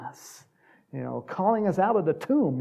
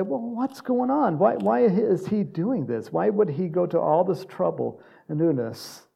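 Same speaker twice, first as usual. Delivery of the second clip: bewildered questioning; 4 semitones higher, 3 dB louder than usual. Acted. Preacher voices people asking why Jesus does this, bewildered.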